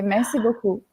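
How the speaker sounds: soft, teasing "merci beaucoup" in French; flirty merci beaucoup. Shown as a demonstration. French speaker charming a listener: soft flirty "merci beaucoup". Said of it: "so I play with that".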